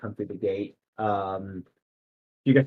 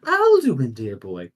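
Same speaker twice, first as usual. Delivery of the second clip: lilting, much higher noblewoman at a party; high lady voice; 4 semitones higher than usual. Acted. Noble lady greets a familiar face at the party, high and surprised. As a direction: play the gracious hostess, pitched way up.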